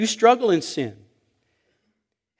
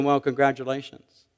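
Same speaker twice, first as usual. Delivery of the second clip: understated, softer wifely sarcasm; sarcastic congratulations; 3 semitones lower, 5 dB quieter than usual. Acted. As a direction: congratulate him while meaning he blew it. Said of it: "with that tone".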